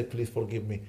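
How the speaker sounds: low, soft plea for forgiveness; hushed, humble apology; softly begging forgiveness. Retold or imitated. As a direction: beg forgiveness gently at a mother's feet. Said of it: "Hold the feet of their mother and say".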